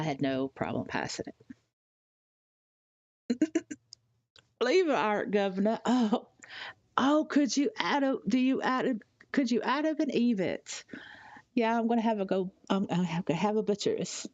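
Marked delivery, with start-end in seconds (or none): 4.6-14.3 jokey Cockney in an EastEnders way; Cockney accent. Pretend. Showing off the Cockney she picked up from EastEnders, light Cockney. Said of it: "accustomed to, to, to Cockney".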